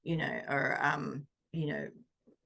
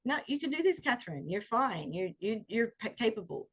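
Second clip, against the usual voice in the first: self-encouragement; 4 semitones higher than usual. Retold or imitated. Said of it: "It's like".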